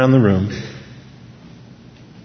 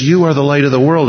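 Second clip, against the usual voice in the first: YOU stressed, higher and louder; emphatic you; 5 semitones higher, 5 dB louder than usual. Shown as a demonstration. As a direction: lean hard on "You". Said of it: "it's emphatic in the Greek".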